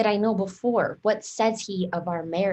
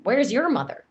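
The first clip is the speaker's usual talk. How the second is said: mocking echo; 5 semitones higher, 4 dB louder than usual. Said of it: "How oddly thou repliest".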